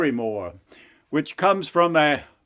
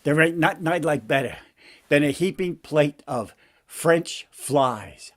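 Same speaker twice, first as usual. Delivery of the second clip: relishing frog. Acted. Frog orders his favourite meal from king, relishing frog voice. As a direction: savour it as a streetwise frog.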